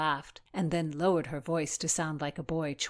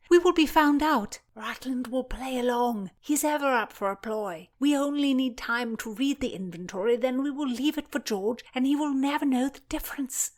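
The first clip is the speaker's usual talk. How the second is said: put-on higher, eager plotting girl; young girl voice; 8 semitones higher, 4 dB louder than usual. A narrator's reading. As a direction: sell the plan brightly. Voices Philomena.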